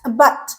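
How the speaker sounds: a but, its first vowel very brief; touch the a of a but lightly; unstressed schwa. Shown as a demonstration. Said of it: "it's very fast".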